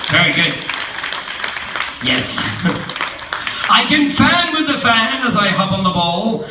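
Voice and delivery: showing-off cat. Acted. The cat shows off his tricks to the kids, laughing. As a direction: brag like a circus showman.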